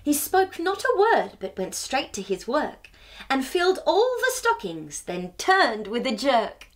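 rhythmic storybook poem reading; reading to children. A narrator's reading. Host reading the Christmas poem to children. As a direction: lilt the rhyme for little listeners.

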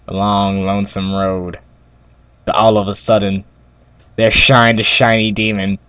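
mock-folksy tale told in measured phrases; campfire storytelling. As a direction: spin a yarn by the campfire.

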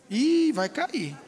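slow, detached murmur; just watch it happen, unbothered; idle onlooker. Retold or imitated. Onlooker watching friend fall. (espectador indiferente e lento)

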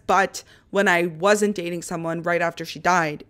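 normal talking voice

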